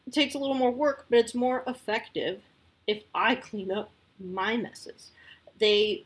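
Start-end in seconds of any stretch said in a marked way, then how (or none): none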